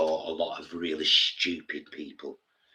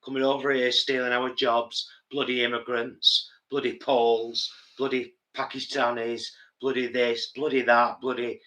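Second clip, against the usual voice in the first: higher-pitched mock rant; mock xenophobic grumbling; 5 semitones higher than usual. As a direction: grumble through a list of scapegoats, mockingly. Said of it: "It's so easy to say".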